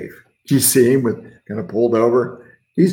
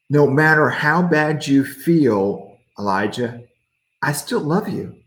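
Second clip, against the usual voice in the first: gentle reassurance; 2 semitones higher than usual. Acted. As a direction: comfort him gently. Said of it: "gentle whisper".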